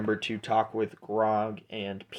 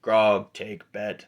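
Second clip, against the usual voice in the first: brute statement, loud first word then dropping; Grog; 4 dB louder, slower than usual. Acted. Half-orc announcing he takes bets, blunt brute voice. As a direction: punch the name, let the rest fall. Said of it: "Hey, Grog, you big guy".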